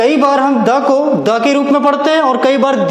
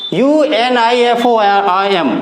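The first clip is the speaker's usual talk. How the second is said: letters of the word spelled out, very slow; teacher dictating the spelling letter by letter; much slower than usual. Shown as a demonstration. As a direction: spell each letter slowly and clearly.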